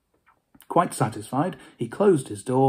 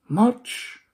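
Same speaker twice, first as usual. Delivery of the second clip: ghostly Marley; 9 semitones higher than usual. Acted.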